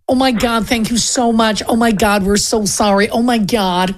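lightly imitated gushing American accent; grateful American. American families coming down the aisle, grateful American accent. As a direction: put on an American accent for effusive thanks. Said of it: "they were very, very grateful, you know, like, American".

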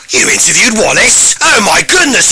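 put-on posh English accent, pitch jumping on the exclamation; impressed posh man. Posh man hearing of the interview, amazed posh voice. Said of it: "he is actually posh".

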